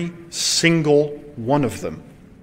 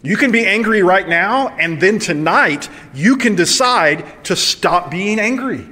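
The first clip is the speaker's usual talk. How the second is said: raised, emphatic push on can; urgent preaching; 4 semitones higher than usual. Real, not acted. Preacher pleading with congregation to let anger go, rising. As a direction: drive home that they can choose.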